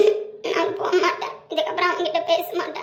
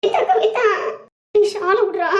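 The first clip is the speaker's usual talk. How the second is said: playful calling out; 3 semitones higher, 4 dB louder, slower than usual. Acted. Calling out while held.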